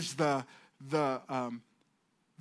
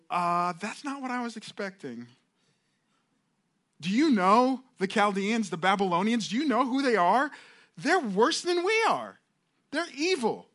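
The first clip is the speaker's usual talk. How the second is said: protesting prophet; 5 semitones higher than usual. Acted. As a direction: climb higher in outrage at God's plan. Habakkuk protesting to God.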